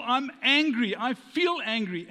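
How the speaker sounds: hammed-up grumpy complaint; half-playful flare of anger; mock angry declaration. Acted angry feeling.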